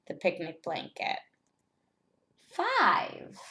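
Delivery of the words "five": high, bright squeak on one word; squeaky high answer. Acted. Teacher answering own question brightly.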